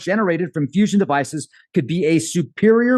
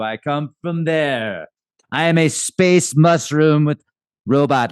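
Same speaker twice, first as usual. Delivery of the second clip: booming arrogant alien overlord. Pretend. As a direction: announce it like a conquering alien master. Mushroom overlord imagined taking over world.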